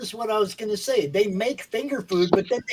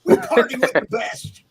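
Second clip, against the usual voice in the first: sleazy ad voice; 3 semitones lower, 5 dB louder than usual. Acted. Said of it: "I feel violated".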